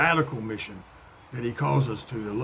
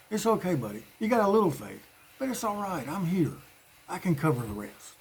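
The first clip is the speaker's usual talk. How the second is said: gentle reassurance; 4 semitones higher, 4 dB quieter than usual. Retold or imitated. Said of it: "reaching out and saying".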